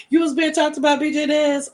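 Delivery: high, loud disbelieving question; surprised question. Real, not acted. Asking a viewer if he was talked about, surprised. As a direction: gasp it out in disbelief.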